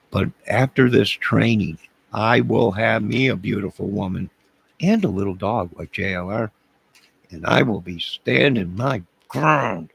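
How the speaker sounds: hammed-up bravado; mock bold boast. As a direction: swagger it out like a new tough guy. Bragging about bad boy training.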